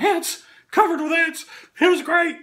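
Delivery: high, loud, gasping with laughter; laughing hard. Real, not acted. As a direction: blurt it out while helpless with laughter. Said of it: "I'm laughing so much I can't breathe".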